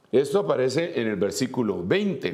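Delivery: usual speaking voice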